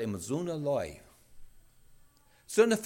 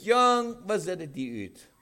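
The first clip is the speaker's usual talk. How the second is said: mock scolding; 3 semitones higher than usual. Imagined father scolding the returned son.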